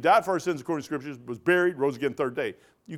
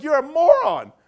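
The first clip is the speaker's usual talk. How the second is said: higher, louder mock jab; mock put-down; 12 semitones higher, 8 dB louder than usual. Preacher in the van retorting to the other man, mock loud jab. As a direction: fire it back as a mock retort. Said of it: "I'm like".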